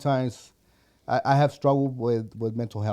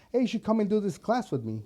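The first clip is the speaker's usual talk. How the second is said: higher-pitched voice for the wife, at normal volume; imitating wife's invitation; 9 semitones higher, faster than usual. Voicing his wife's invitation.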